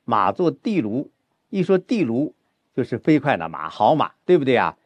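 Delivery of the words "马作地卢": slow line, weight on 地卢; stress on 地卢. Shown as a demonstration. Teacher shows student where the stress falls, stress on 地卢. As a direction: lean on 地卢, drawing it out slowly. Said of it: "应该是放在地卢上".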